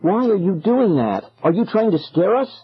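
high, agitated questions; pleading. A narrator's reading. Lost kids to chanting dancers, agitated plea. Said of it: "Ben and I both pleaded".

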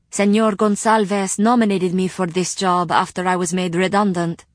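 lightly voiced courteous librarian; polite librarian voice. Rima explains her job.

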